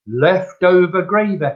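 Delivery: mock obstinate customer repeating her verdict; retold stubborn insistence. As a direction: insist on it, refusing to budge.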